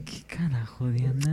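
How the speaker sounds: hushed what-the-hell whisper; whispered disbelief. Real, not acted. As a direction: whisper it, baffled. Stunned reaction to odd remark. (susurro incrédulo)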